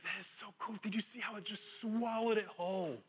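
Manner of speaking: a lightly voiced eager child; little kid. Paul as a kid at the aquarium window, mildly childlike. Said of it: "he's like".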